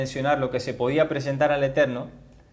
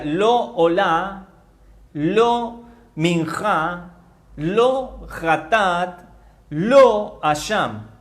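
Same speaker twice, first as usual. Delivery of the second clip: very slow, "lo" held on an accented O; stress on LO; much slower than usual. Shown as a demonstration. Teacher shows how the verse would read, "lo" stressed and drawn out. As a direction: set each "lo" apart, long and emphatic, before its word. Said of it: "con acento en la O, con tilde en la O".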